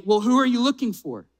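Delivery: lightly teasing question with a smirk. Acted. Jesus asking Mary who she seeks, with a slight smirk. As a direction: ask it knowingly, quick and playful. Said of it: "kind of having a smirk on his face".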